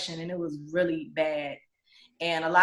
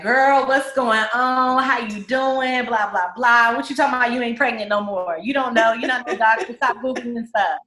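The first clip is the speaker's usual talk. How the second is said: loud doctor; 4 semitones higher, 6 dB louder than usual. Retold or imitated. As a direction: boom it out like a big-hearted doctor.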